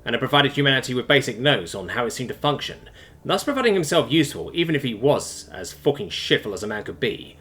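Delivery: steady audiobook narration; measured story narration. A narrator's reading. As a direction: read it like an audiobook.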